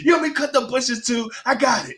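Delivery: high mock grumble with laughter; lightly voiced put-upon husband; imagined husband complaining. Wife imagining husband's reply, high mock whine. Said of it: "'Cause she's like".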